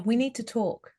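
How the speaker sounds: a lighter, gentle version. Shown as a demonstration. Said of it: "a little bit lighter in your voice, less direct".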